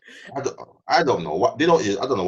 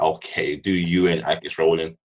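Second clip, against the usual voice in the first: preacher voice; 6 semitones lower than usual. Retold or imitated. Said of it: "Man's preaching".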